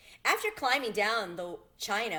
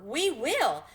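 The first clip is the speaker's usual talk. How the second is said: loud roaring cry; beasts' roar; 6 semitones higher, 6 dB louder than usual. A narrator's reading. The beasts roaring their promise to the lion, loud. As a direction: roar it out together. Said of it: "roared with a mighty roar".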